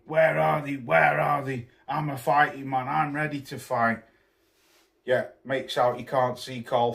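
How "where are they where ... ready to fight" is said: imitated shouting. Barging in through the doors, shouting for his rivals. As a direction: ham up the drunk tough-guy yell.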